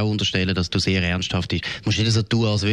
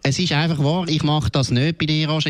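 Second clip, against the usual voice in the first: angry insistence; 5 semitones higher than usual. Real, not acted. To Roger in the argument: angry emphatic insistence. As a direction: hammer home that it's true.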